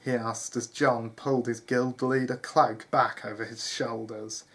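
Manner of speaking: measured storyteller delivery; story narration. A narrator's reading. Narrator telling listeners of John leaving the manor, story narration. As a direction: read it out as a tale.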